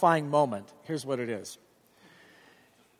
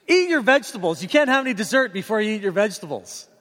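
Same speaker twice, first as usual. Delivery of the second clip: higher, louder mock parental nag; nagging parent; 4 semitones higher, 4 dB louder, faster than usual. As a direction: lecture the kid like your own parents did. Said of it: "you say these things".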